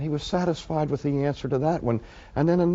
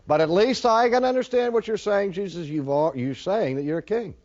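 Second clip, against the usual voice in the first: higher, louder, a scoffing governor pressing the point; needling Pilate; 6 semitones higher, 4 dB louder than usual. Acted. Pilate cornering Jesus about his kingship, loud and scoffing. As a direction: catch him out, half taunting.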